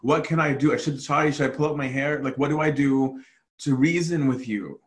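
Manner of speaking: pleading exasperation, pitch climbing midway; acted frustration. Preacher voices a brother who can't watch this, frustrated. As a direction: reason helplessly with someone stubborn. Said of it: "it's that frustration of saying".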